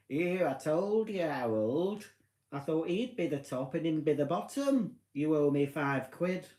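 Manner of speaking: a hint of a nosy neighbour collecting a bet; gossiping neighbour. Imagined campsite neighbour winning a bet, lightly voiced gossip.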